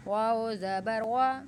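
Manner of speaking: وا said with rounded lips, slow. Shown as a demonstration. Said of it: "ہونٹوں کو گول کر کے". (وا ہونٹ گول کر کے)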